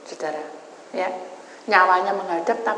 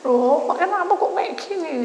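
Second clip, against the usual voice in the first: high, anguished cry of disbelief; 10 semitones higher than usual. Retold or imitated. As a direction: wail it out in shock. Crying out to God. (teriakan kaget penuh duka yang tinggi)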